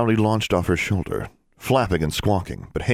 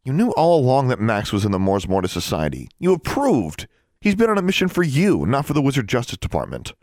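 sullen; 6 semitones higher than usual. Acted. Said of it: "in a voice even more sullen".

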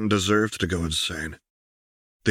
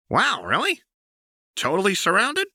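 very high sarcastic awe; mock her sister's threat; high sing-song sarcasm; 13 semitones higher than usual. Jinx mocks Vi.

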